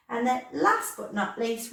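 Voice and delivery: ordinary talk, nothing marked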